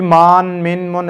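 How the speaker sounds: मान, मिन, मुन with the vowels stretched; wrong long reading. Shown as a demonstration. Teacher showing children how not to stretch मान, मिन, मुन. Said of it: "इस तरह लॉन्ग नहीं करेंगे".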